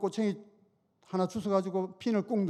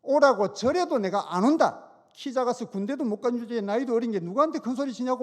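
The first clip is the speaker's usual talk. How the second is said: angry retort; 3 semitones higher than usual. Retold or imitated. Deacon losing his temper at the mechanic, mock angry shout. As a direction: snap back at him, blowing your top. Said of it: "뚜껑이 확 열려가지고는".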